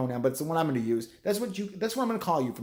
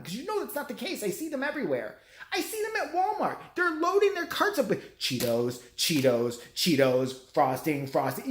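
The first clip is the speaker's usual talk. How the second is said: incredulous rant; 6 semitones higher than usual. Real, not acted. Ranting about shoppers.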